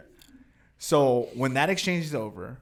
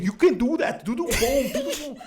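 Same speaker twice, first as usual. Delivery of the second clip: high, loud mocking imitation; laughing mock coaching voice; making fun, as Fonzo; 11 semitones higher, 3 dB louder than usual. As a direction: tease through laughter, climbing in pitch. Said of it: "He was making fun of her".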